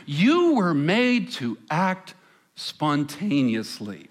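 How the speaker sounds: slow, hushed, persuasive commercial voice; suggestive ad voiceover. Retold or imitated. Pastor imitating the Expedia ad voice to the congregation, slow and suggestive. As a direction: pitch the line slowly like a seductive travel ad. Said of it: "what powerful and suggestive language".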